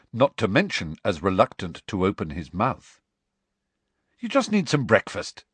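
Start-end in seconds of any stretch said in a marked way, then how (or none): 4.2-5.5 brisk encouragement with lifted pitch; higher-pitched, bracing urging. Acted. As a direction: buck up a nervous friend. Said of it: "Harry said bracingly".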